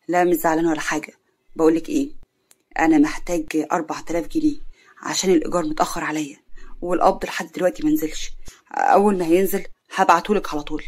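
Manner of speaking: lightly voiced man on the phone; casual boyfriend Karim.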